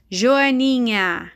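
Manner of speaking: very drawn-out word; teacher sounding out slowly at half speed; slow dictation. Shown as a demonstration. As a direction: stretch the syllables so children can spell it. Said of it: "fale a palavrinha".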